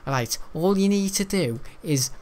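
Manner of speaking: lightly mimicked Scouse accent; Scouse accent with a halting delivery; mocking Scouse teacher. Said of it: "geography teacher about Scouse said".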